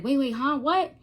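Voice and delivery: confused reaction rising sharply at the end; startled disbelief. Retold or imitated. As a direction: retell a baffled double take. Retelling her startled reaction.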